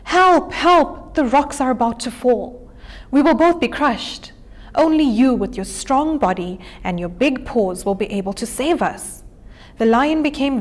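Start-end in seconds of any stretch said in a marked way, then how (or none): 0.0-9.2 hammed-up panicked calling; mock shouting for help. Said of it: "continued with his shouting".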